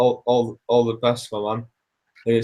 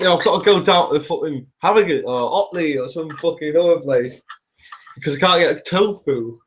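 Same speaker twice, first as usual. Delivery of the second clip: higher, exasperated comic rant; raised, half-laughing grumble about no tofu; mock rant; 4 semitones higher than usual. Real, not acted. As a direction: vent with comic frustration.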